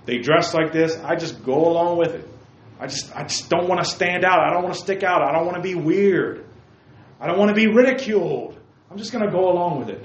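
a hint of a kid who just wants to fit in; lightly mocked conformist.

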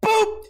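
high, bright boop for a punch; mock punch sound. Retelling a concert fight, a playful boop. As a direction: pop it out like a cartoon hit.

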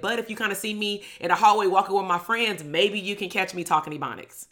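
mildly sarcastic retort; a touch of mock helpfulness, sarcastic. Student answering the dean about Ebonics, sarcastic. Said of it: "I said this very sarcastically".

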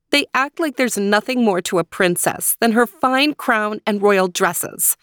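high, sulky princess voice; frowning princess. Acted. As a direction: grumble it like a bored princess. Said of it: "she said to herself with a frown".

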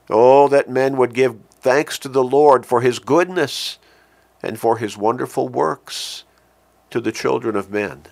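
loud rising start, falling away at the end; loud proclaiming then settling; fervent refrain. Acted. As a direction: plead it to the people. Repeats refrain.

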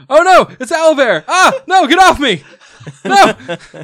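high, loud yell of alarm; hammed-up cry for help; panicked shout. Startled sailor on deck fending off Owlbear, panicked shout.

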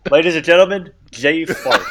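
hammed-up stage introduction; mock announcer. Co-host introducing himself as candidate, mock announcer. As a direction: present him grandly, with a laugh creeping in.

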